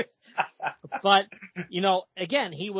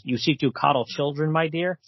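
lightly voiced courtly vampire; a hint of a suave count, slightly low; Dracula; 4 semitones lower than usual. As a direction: read it as a formal, wooing villain. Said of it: "Dracula then, it looks like he comes over".

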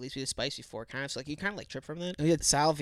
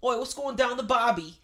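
put-on Australian accent; 7 semitones higher than usual. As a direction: bellow it like a cartoon Aussie bloke. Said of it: "Do Australian".

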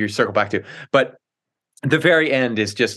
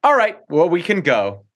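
a hint of the wife wrapping things up; lightly voiced, done-with-it wife; resigned wife; 5 semitones higher than usual. Wife ending husband's staged rescue, mildly resigned. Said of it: "she's just, like, pretty much like".

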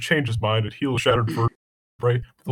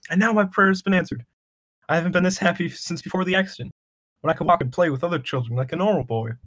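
put-on joyful child; 4 semitones higher than usual. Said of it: "said the joyful Timmy".

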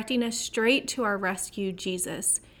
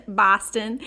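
light put-on Boston accent; mock Boston local; 4 dB louder than usual. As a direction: say the city name with a playful Boston twang. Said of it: "my Boston accent begins and ends".

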